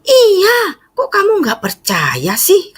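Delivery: very high, almost crying insistence; mother's plea, high and near tears; hurt mother insisting, high and tearful; mom insisting. Retold or imitated. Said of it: "katanya gitu".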